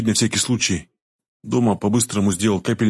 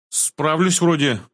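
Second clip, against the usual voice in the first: higher, slow, lightly smiling reply; with a smile; 7 semitones higher, much slower than usual. A narrator's reading. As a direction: answer with a slight smile. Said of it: "ответил с улыбкой парень". (с улыбкой)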